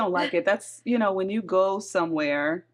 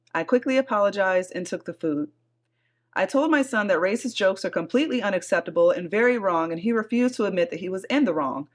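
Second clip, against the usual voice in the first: measured read-aloud of a post; story narration. A narrator's reading. Host reading a Reddit thread to her co-host, story narration. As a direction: read it out evenly, like a written account.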